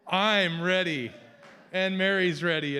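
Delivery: "I'm ready" shouted high and slow; loud proclamation. Real, not acted. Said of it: "Will the real ready please stand up".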